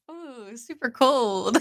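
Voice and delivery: slow drawn-out mock shiver; drawn-out ooh. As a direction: stretch out the ooh slowly. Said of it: "I can hear you saying".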